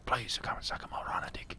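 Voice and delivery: soft pleading whisper; whispering rhino. Acted. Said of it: "Why are you whispering?".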